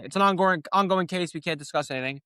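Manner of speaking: lightly voiced legal spokesman; mock official line. Streamer mocking what lawyers always say, light mock voice. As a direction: parrot the stock phrase. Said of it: "that's what they always say".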